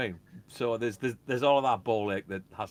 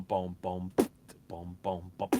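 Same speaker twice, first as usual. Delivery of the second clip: beatboxed booms with a gap between phrases; imitated drum beat; 3 semitones lower, slower than usual. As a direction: sound out a simple programmed beat. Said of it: "I programmed the beat going".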